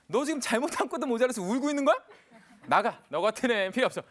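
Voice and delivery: loud, acted scolding of a child; angry father. Father to his crying toddler who fell, angry shouting. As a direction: berate the crying child as an exasperated dad. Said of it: "이 아빠가 화가 났어요".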